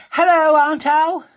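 panting after running up the lawn; out of breath. A narrator's reading. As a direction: gasp out the greeting. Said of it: "she said breathlessly".

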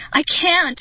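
high, loud despairing wail; panicked kid's cry. A narrator's reading. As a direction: wail it helplessly. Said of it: "he wailed".

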